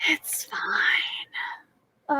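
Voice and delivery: a rueful little whisper to herself; whispered aside. Real, not acted. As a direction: whisper it, softly resigned. Self-deprecating aside about her acting.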